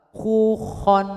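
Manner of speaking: "Khu, khon" keeping the rounded lips; wrong example. Shown as a demonstration. (contoh salah, bibir tetap monyong)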